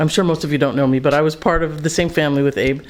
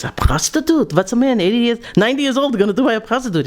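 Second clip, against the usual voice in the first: put-on indignant old wife; 6 semitones higher than usual. Wife Sadie's indignant reply.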